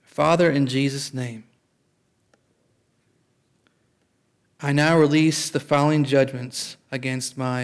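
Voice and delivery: measured prayer for others to repeat; deliberate prayer with long pauses; leading a prayer. Real, not acted. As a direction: pray it out phrase by phrase. Leads repeat-after-me prayer.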